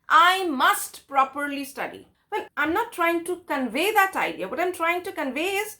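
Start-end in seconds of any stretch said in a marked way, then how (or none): 0.1-2.1 slow, "must" leaned on in "I must properly study"; weight on "must", not on "properly"; stress on must. Shown as a demonstration. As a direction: press the word "must", slowly. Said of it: "It is emphasizing on the verb must".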